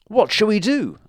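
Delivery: high, loud panicked question; frightened dragon. A narrator's reading. Scared dragon asking his mother for help. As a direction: squeal it in fright.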